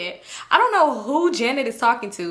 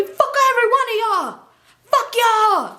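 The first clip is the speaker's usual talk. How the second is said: high-pitched, laughing imitation of outrage; imitated angry holler; mock cursing yell; 12 semitones higher, 3 dB louder than usual. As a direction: curse out the whole group, hamming it up. Drunk husband cursing the group.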